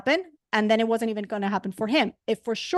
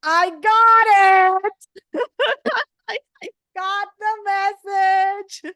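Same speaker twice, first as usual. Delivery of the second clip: louder, much higher, very slow, laughing; laughing realization; 8 semitones higher, 7 dB louder, much slower than usual. Retold or imitated. Telling Hashem she got the message, slow laughing. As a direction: let the lesson land with a laugh. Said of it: "And I was like".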